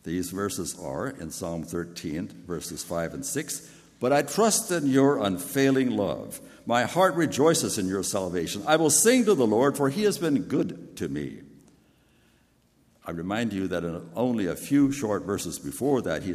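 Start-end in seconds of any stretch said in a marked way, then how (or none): 4.0-11.4 rejoicing proclamation. Acted. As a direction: lift the psalm out, louder and higher, rejoicing. Reading triumphant psalm verses aloud.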